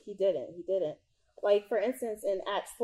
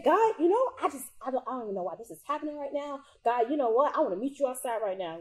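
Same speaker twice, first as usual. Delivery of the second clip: mock angry prayer; 5 semitones higher, faster than usual. Demonstrating an angry prayer to viewers, mock frustrated. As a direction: vent at God like you mean it.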